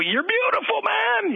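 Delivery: high-pitched mock scream at normal volume; imitated coach's yell. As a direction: yell it like a fired-up sideline coach, held back in volume. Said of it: "he's the guy yelling, screaming".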